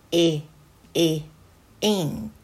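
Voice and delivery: short lax え, え, then ink with that same vowel; short I phonics sound. Shown as a demonstration. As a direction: model the loose i of ink in each え. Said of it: "Iの音".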